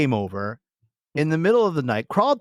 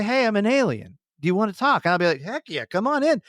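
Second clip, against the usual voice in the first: higher, excited welcome; imagined alien and eager self; 6 semitones higher than usual. Retold or imitated. Cohost acting out greeting a visiting alien, excited. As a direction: greet the alien like an old friend.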